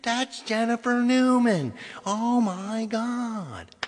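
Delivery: high, slow, rising into loud disbelief; shocked realisation. Retold or imitated. Singer on the plane realising who the fan was, stunned. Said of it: "and I went like".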